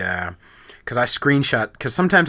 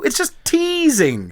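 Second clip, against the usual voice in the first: mock soothing; 12 semitones higher, slower than usual.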